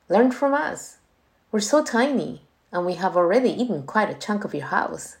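bright and eager, speeding up; rally him with excitement; queen urging the child on, excited. Acted. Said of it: "she said with excitement".

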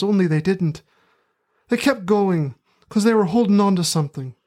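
put-on terrible working-class Midlands accent; rustic Midlands accent. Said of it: "in my terrible working-class rustic Midlands accent".

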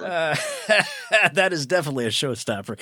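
nervously laughing. Real, not acted. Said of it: "that's my nervous laugh".

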